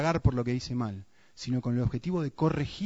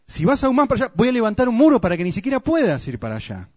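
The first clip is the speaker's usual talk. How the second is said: stern warning; 9 semitones higher, 8 dB louder than usual. Retold or imitated. God warning in the prophecy.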